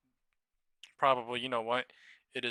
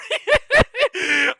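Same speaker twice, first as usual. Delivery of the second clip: very high loud shrieking laugh; 17 dB louder than usual. Real, not acted. Streamer losing it after his chant, very high shrieking laugh. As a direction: let out a squealing shriek of laughter.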